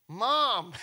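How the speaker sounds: high, loud call for mom. Pretend. Sister running home to fetch her mother, calling loudly. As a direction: shout for mom as you run home.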